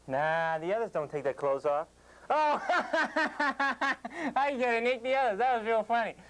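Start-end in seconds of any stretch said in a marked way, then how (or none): 2.3-6.1 forced laugh. Acted. Sarcastic laugh at owner's joke.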